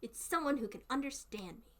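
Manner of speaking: put-on thrilled Southern accent greeting a kindred speaker; excited Southern accent. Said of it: "my accent goes".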